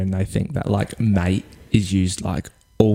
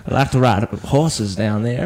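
attempted Texan accent; slower than usual. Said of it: "a good American accent".

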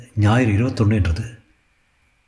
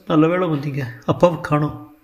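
tearful; 6 semitones higher than usual. Acted. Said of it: "கண்ணீருடன் நின்றாள்".

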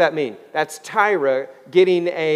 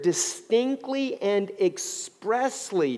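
DISTINCTLY and EXPRESSLY slowed and pitched up; emphatic stress; 4 semitones higher, much slower than usual. Real, not acted. Preacher reminding congregation what the Bible says, "distinctly" and "expressly" slow and stressed. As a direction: draw out "distinctly" and "expressly", syllable by syllable. Repeats scripture words for emphasis.

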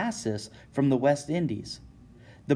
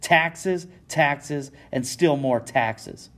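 angry rant; 4 semitones higher, much slower than usual. Acted. Angry merchant ranting.

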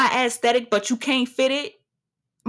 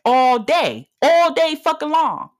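defiant boast; 5 semitones higher, 4 dB louder, slower than usual. Real, not acted.

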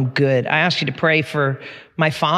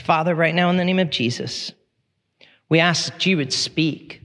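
measured, earnest prayer; public prayer; 3 semitones higher than usual. Real, not acted. Pastor asking God to speak to the congregation, public prayer. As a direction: lead the room in prayer, pausing between phrases.

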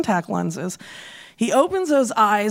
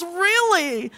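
flat sarcastic reply; 5 semitones higher than usual. Retold or imitated.

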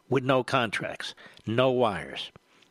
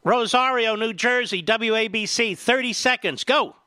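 excited; 10 semitones higher, 4 dB louder than usual. Real, not acted. Host calls on the caller.

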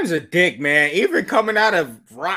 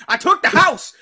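excited shout; 13 semitones higher, 4 dB louder than usual. Pretend. Hyped boast.

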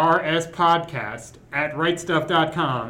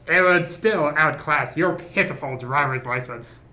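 Hannibal Lecter voice. Acted. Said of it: "do a transatlantic accent slash Hannibal Lecter voice".

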